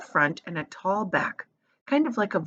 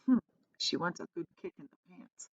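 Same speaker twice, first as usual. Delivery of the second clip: whispered aside; 10 dB quieter than usual. A narrator's reading. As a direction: mutter it to Charlie behind her back. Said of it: "whispered Grandpa Joe".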